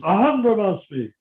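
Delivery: emphatic demonstration of "Aham Brahmasmi"; Prabhupada's emphasis. Shown as a demonstration. Disciple showing how the lecture ended, "Aham Brahmasmi" emphasised. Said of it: "that sort of emphasis".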